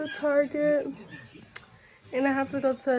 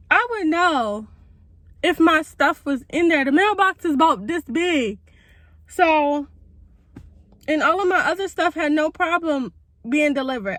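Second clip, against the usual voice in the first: raised and exasperated, building the case; 3 semitones higher, 4 dB louder than usual. Real, not acted. Venting to viewers about the missing hair package, exasperated. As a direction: vent the frustration, louder.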